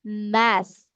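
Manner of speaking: "math" ending with a long, blown TH, tongue on upper teeth; exaggerated th practice. Shown as a demonstration. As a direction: say "math" pushing air out over the tongue. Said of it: "So you have to pronounce this one".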